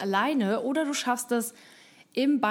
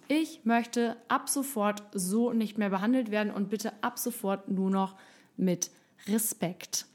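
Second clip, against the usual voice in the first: calm, voice lowering. Shown as a demonstration. To a rude coworker, calm firm demand for respect, voice sinking. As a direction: let the voice sink into calm authority. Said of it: "wie meine Stimme jetzt runtergegangen ist".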